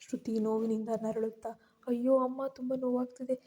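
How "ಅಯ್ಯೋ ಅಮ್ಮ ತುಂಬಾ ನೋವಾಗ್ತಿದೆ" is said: crying in pain. Acted. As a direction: plead through the pain, mock sobbing. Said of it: "ಜೋರಾಗಿ ಅಳೋಕೆ ಶುರು ಮಾಡ್ತಾಳೆ".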